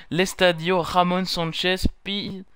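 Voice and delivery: struggling to pronounce 'Pizjuán' with a Spanish accent. Shown as a demonstration. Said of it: "pour mon accent". (accent espagnol hésitant sur 'Pizjuán')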